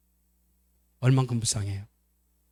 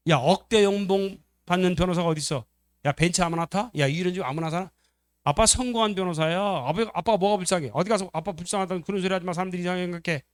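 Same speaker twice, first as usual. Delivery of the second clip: higher-pitched mock-offended rant; indignant; 4 semitones higher than usual. Son defends Dad's success to sibling, indignant. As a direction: pile up rhetorical questions in protest. Son bristles at pity for father.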